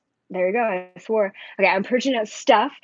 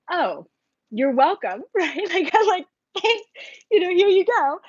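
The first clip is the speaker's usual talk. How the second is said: sarcastic; 8 semitones higher than usual. Retold or imitated. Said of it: "And I'm like".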